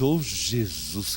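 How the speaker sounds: low, soft, drawn-out groan of dismay; mortified low moan. Retold or imitated. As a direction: sink down in embarrassment. Pastor mortified.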